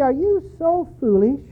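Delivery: scripture reading. Acted. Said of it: "Galatians three three".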